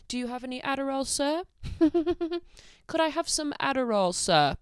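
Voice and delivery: high, pleading joke voice asking a stranger; mock begging. Vlogger jokingly begs a stranger for Adderall, high mock pleading. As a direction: play a giddy beggar pleading for pills.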